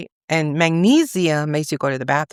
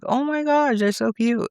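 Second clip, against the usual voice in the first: cute squeal; 8 semitones higher than usual. Retold or imitated. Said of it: "I was like".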